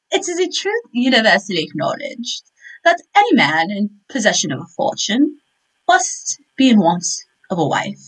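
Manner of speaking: a lightly performed, grand reading of a famous opening line; dramatic recitation. Shown as a demonstration. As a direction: declaim it like a classic novel's first sentence, only a little theatrical. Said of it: "that was really well done".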